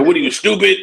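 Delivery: high, loud incredulous mock outburst; mock scolding. Podcaster playing a boss berating a sleeping cameraman, mock scolding.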